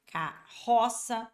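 CARROÇA said slowly, double R as a single breathy H sound; carroça as one R sound. Shown as a demonstration. Teacher shows students the double R's single sound, slow demonstration. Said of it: "falo carroça".

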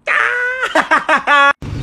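high open laugh; burst of laughter. Real, not acted. Breaking character into a burst of laughter.

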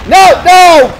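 high, loud panicked no; panicked shout. Real, not acted. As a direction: yell in panic. Cornered in game.

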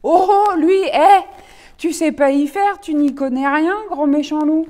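high loud mocking scold. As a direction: tell him off loudly. Red rabbit scolds the wolf. (lapin roux qui gronde le loup)

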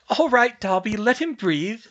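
put-on girlish call. Girl calls from down hall.

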